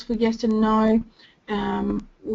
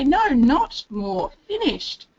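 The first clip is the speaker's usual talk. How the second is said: put-on slow, rising child's reply, finished pitched up high; child answering back; 4 semitones higher, 4 dB louder, slower than usual. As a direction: voice the child turning down more, ending high on finished.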